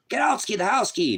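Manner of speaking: high comic quote from Cheech and Chong; Cheech and Chong bit. Retold or imitated. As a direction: lightly toss off a Cheech and Chong line. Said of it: "Remember that was Cheech and Chong".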